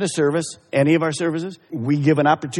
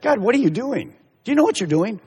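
frustrated at God; 5 semitones higher, faster than usual. Retold or imitated. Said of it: "What a stupid statement".

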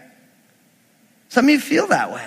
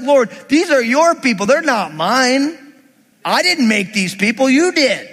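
exasperated, higher-pitched acted protest; frustrated Moses; 4 semitones higher than usual. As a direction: push the blame back at God in mock exasperation. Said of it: "He's frustrated".

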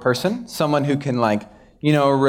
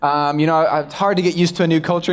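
oversharing American; 4 semitones higher than usual. Retold or imitated. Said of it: "these Americans would be like".

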